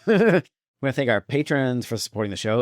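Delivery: put-on light Swedish accent; a hint of Dolph Lundgren's Swedish accent. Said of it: "Do you wanna do it as Dolph?".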